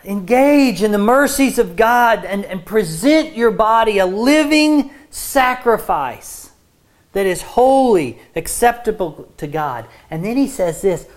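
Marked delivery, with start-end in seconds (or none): 0.0-9.8 urgent, raised pleading appeal; beseeching. Retold or imitated. Preacher voices Paul pleading with the church, beseeching. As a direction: press it on them, loud and imploring. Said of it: "It's like begging them. He's saying".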